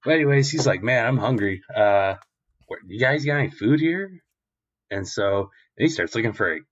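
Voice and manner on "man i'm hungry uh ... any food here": hungry Luffy. Acted. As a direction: ask for food with a rising pitch. Luffy asks for food.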